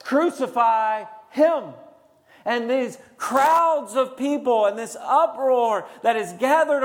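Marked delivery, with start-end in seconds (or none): 0.0-1.8 drawn-out, emphatic cry, short of a scream; mock crowd scream. Preacher imitating the crowd turned against Jesus, mild mock scream. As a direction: call it out slowly like a crowd's demand. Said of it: "screaming at the top of their lungs".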